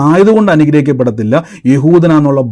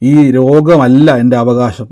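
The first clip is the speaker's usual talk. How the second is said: slow prayer declaration; 2 semitones lower, slower than usual. Shown as a demonstration. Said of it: "എന്നിട്ടൊന്ന് പറഞ്ഞ്".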